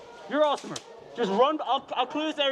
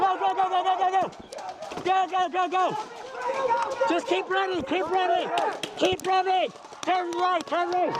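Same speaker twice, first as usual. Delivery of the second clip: barked order; 4 semitones higher than usual. Real, not acted. Urging team to run.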